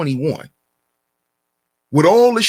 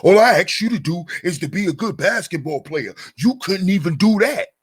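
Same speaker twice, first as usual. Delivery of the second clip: belittling mock quote. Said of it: "Why do black men talk like this".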